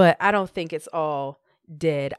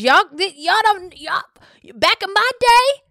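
put-on disapproving old parent; 8 semitones higher, 3 dB louder than usual. Mimicking old-school parents complaining.

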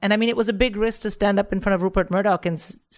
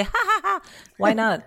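mock carefree laugh; 4 semitones higher than usual. Imitating Wendy's carefree laugh.

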